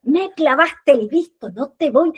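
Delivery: hammed-up hurt reproach; playing the victim. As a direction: lay the blame on thick. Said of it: "bien de víctima".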